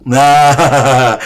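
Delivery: low, laughing "nah"; chuckling. Real, not acted. Preacher jokes about the name Selamet, chuckling. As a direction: let the word roll into a chuckle.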